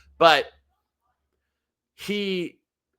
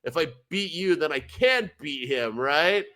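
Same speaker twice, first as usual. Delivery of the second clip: mock British; 2 semitones higher, slower than usual. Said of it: "And he's like".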